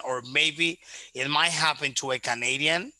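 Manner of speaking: usual speaking voice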